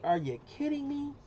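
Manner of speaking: high-pitched imitation of a kid; son's voice. Dad imitating his son on a livestream, high-pitched. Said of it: "as my son would say".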